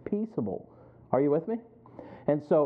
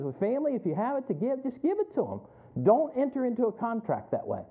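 voicing his dad; 8 semitones higher than usual. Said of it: "he says".

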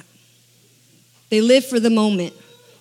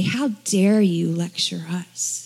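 indignant whisper; 4 semitones lower, slower than usual. Retold or imitated. Pharisees indignant at the man.

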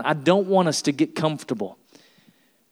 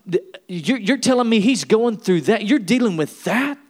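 indignant Jesus; 4 semitones higher than usual. Retold or imitated. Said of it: "holy anger".

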